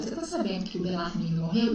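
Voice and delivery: questioning rise at the end on "morreu"; a brisk question that ends rising on "morreu"; direct question. Shown as a demonstration. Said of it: "é uma pergunta direta".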